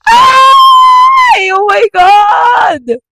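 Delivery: very high, loud drawn-out scream; panicked shriek. Retold or imitated. Storyteller screaming at the live stream disaster, panicked shriek. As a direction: shriek in horror.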